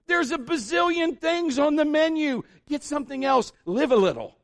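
high, loud mock rant; loud parental outburst, dropping at the end; exasperated dad. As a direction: scold a picky kid in comic frustration. Acted dad arguing with son.

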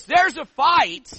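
loud and slow, hammering it home; emphatic shout. Real, not acted. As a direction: proclaim the fight at full force. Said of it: "preacher's emphatic declaration".

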